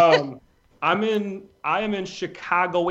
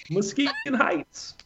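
mock crying; 11 semitones higher, 4 dB quieter, much slower than usual. Joke about ending up in Muskegon.

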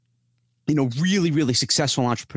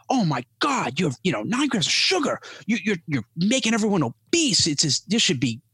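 mocking critic; 4 semitones higher than usual. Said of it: "someone's like".

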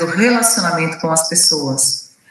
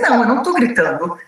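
mildly defensive, pitched higher; defensive denial; 5 semitones higher than usual. Acted. Accused person denying they are shouting, mock defensive. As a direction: protest the accusation, voice lifted. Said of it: "ela tende a dizer".

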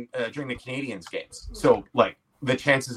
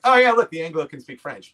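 retold French Canadian reaction; 4 semitones higher, 6 dB louder than usual. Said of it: "the first French Canadian that saw it".

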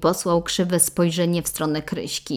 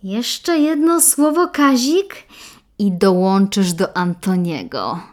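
hissed; 3 semitones higher, 6 dB louder than usual. Acted. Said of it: "syknęła Kryśka".

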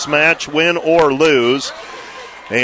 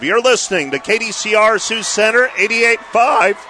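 excited station ID; 6 semitones higher than usual. Real, not acted. Station ID after the win.

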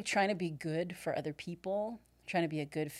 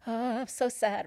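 hammed-up woe, raised in pitch; mock misery; 5 semitones higher, 4 dB louder than usual. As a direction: put on an exaggerated poor-me sigh. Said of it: "you're supposed to be miserable and lonely".

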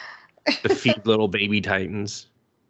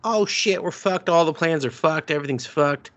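high, frantic mock panic; higher panicked recruits yelling; panicking; 5 semitones higher than usual. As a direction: blurt it like everything's collapsing. Panicking volunteers quoted.

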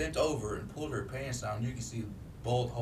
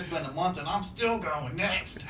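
mock crude woman; 6 semitones higher than usual. Mimicking woman's rude answer.

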